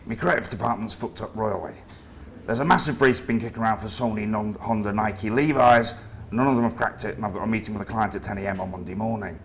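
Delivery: hammed-up northern English accent; comedy northern accent. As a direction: play a gruff northern boss, northern accent. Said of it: "in his comedy northern accent".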